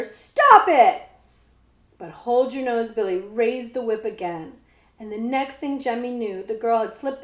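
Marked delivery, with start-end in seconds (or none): 0.0-1.0 loud, high cry; shout. A narrator's reading. Girl yells at the outlaws to stop, loud. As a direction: yell for them to stop.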